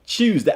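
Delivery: "Tuesday" as /tʰʃuzdæ/, ending in a flat "day"; mock "Tuesday" said the way they say it; someone else's Tuesday. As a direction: imitate the other guy's "Tuesday" with a "choo" start. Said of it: "I don't say Tuesday".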